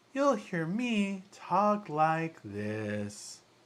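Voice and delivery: very slow, high-pitched, swooping sing-song put-on voice. A speaker showing how he talks in another channel's videos: high-pitched voice. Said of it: "High pitch".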